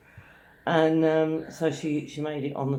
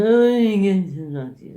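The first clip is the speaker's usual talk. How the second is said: higher, loud pestering call; mimicked yelling; 4 semitones higher, 7 dB louder than usual. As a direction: holler it like an obnoxious stranger. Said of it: "that's how much you were yelling".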